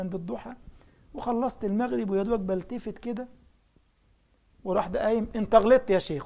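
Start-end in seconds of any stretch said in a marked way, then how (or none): 5.4-6.2 loud rebuke. Retold or imitated. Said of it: "قدام الناس كلها".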